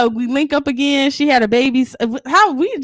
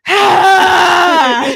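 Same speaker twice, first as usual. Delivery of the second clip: a sudden sharp cry, louder and higher; mock yelp of annoyance; 5 semitones higher, 5 dB louder than usual. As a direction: yelp like something just spilled on you. Spilled something on her uniform.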